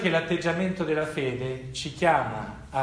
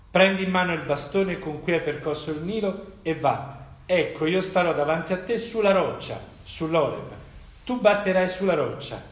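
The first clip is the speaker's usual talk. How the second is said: steady, raised public reading of the Bible passage; scripture reading; 2 semitones higher than usual. Acted. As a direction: read the scripture out to the congregation. Reads Exodus 17 aloud.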